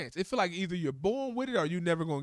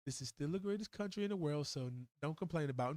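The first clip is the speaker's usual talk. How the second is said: mock grumble; 3 semitones lower, 5 dB quieter than usual.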